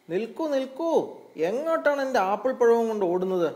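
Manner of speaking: high-pitched cry after a runaway thief; rabbit crying out. A narrator's reading. Rabbit chasing hedgehog running off with his apple, crying out. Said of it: "മുയൽ നിലവിളിച്ചു".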